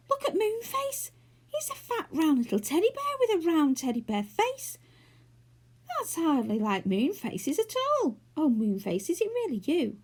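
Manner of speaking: high excited squeal. A narrator's reading. Franny squealing at Moonface's new look. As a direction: squeal with delight at the sight. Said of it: "squealed again".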